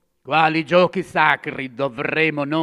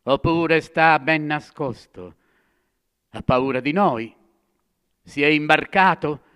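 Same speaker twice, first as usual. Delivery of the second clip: rising, louder mocking cries; jeering shouts; 4 semitones higher, 5 dB louder than usual. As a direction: taunt him, getting louder with each question. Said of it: "gridavano, ridevano".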